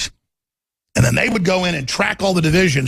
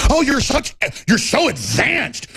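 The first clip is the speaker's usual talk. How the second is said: sarcastic praise; 7 semitones higher, slower than usual. Acted.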